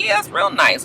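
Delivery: high mock-pleasant husband voice; sarcastic husband. Recapper voicing the husband, mock-pleasant. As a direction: humor her sarcastically. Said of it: "he was just like".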